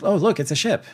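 high, excited mock cry of discovery; sudden high-pitched point-and-shout; surprised shout. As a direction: blurt it out like you just spotted rescue. Retold sudden sighting.

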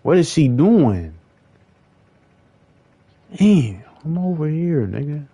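high, loud, slow call; real exasperated shouting. Real, not acted. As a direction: yell to get her attention. Calling to game character.

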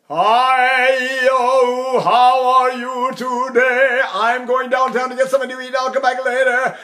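high, loud, open-throated talk; open speaking voice. Shown as a demonstration. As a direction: speak with the sung resonance. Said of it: "then you say".

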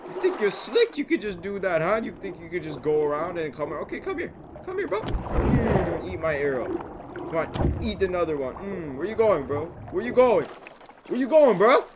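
loud, high, mocking shouts; trash-talk yelling. Real, not acted. Gamer shouting trash talk at a shark while shooting, loud and high. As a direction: jeer at it while you shoot it.

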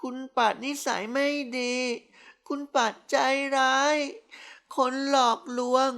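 put-on high, whiny drunk girl complaining; drunk lament. A narrator's reading. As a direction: lament like a tipsy child scolding him. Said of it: "ตีรนาคร่ำครวญ". (คร่ำครวญแบบเมาๆ เสียงสูงงอแง)

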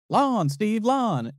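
high baffled repeating of lawn; puzzled Steve impression. Host Steve repeating the contestant, high and baffled. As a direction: echo the word back in disbelief. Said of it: "And Steve goes".

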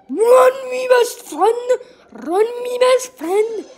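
high, loud, stretched-out call; urgent shouting. Real, not acted. Player to best friend in the chase, urgent high shouting. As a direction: holler to a friend to get away. Urging friend to flee in game.

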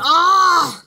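drawn-out, lively imitated "ah"; imitated "ah" noise. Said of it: "One more thing going".

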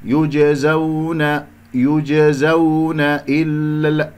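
"يجزون إلا" chanted slowly, no punch on the و; unstressed recitation. Shown as a demonstration. Teacher showing how to avoid stress, slow smooth chant of "يجزون". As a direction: draw out "يجزون" smoothly without accenting its glide. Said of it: "لا تنبر".

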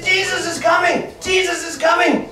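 high, excited shouts of news spreading; acting out an eager crowd. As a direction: shout it like a thrilled onlooker passing word along. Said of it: "They were so excited to see Jesus".

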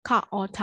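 "caught" spelt out in sounds, ခ-အော်-ထ; teacher segmenting "caught" as ခ-အော်-ထ; sound-by-sound breakdown. Shown as a demonstration. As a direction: run through the three sounds ခ, အော်, ထ distinctly. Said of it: "အတန်အတွက်ကအဲ့လိုလေးဖြစ်ပါ".

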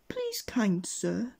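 high, slow, feeble appeal; old washerwoman. A narrator's reading. Old washerwoman stops Mister Mean, high pleading voice. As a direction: put on a high old woman's voice. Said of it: "he met an old washerwoman".

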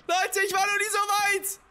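elated shout to the viewers; drawn-out thrilled cry. Real, not acted. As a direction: savor the triumph loudly.

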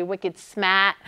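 slow Boston "wicked smat" with the r dropped, lightly imitated; a light, slow Boston take on "wicked smat"; mock Boston "wicked smat", said slowly with no r; Boston accent. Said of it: "awful accent".

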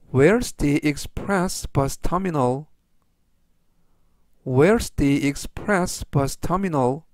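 slow, measured English for learners; teacher's deliberate, word-by-word pace; slow model reading. Shown as a demonstration. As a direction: read it out slowly for repeat-after-me. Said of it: "천천히 세 번씩 읽어드리고요".

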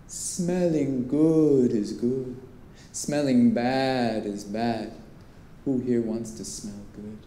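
slow, low Caribbean salesman's lilt; lightly imitated Caribbean perfume seller, slow and hypnotic; deep Caribbean accent. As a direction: draw each word out in a soothing Caribbean accent. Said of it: "he had this deep Caribbean accent".

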